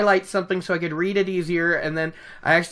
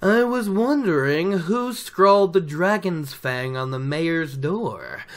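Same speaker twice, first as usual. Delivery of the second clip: a lightly voiced sly storyteller, hinting; sly gleeman Tom. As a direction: slip the hint in sideways, knowingly. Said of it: "He's like".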